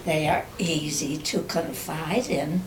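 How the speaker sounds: measured poetry reading with long pauses; poem recitation. Acted. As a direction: recite your own verse, pausing after each phrase. Reads own poem aloud.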